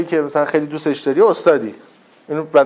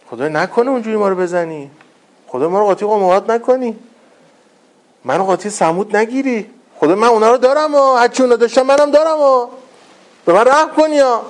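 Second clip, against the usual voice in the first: high, rising acted plea; pleading; 6 semitones higher than usual. Believer begs God not to count him with Ad, pleading. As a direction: beg for mercy, building higher as it goes.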